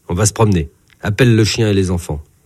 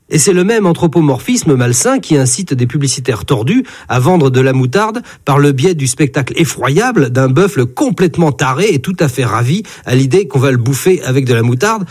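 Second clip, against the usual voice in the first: ordinary delivery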